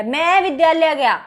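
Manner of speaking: emphatic "मैं", meaning only I; stress on मैं. Shown as a demonstration. Only I went to school, stress on "मैं". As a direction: lean on "मैं", rest follows falling. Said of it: "मतलब सिर्फ मैं ही गया".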